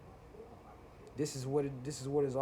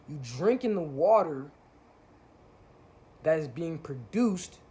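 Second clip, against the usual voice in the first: heated rant; 6 dB louder, slower than usual. Real, not acted. Ranting at conscious YouTubers.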